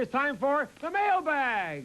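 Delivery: slow, big announcer build-up; host booming out the segment title; announcer call. Acted. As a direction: sell the segment to the crowd.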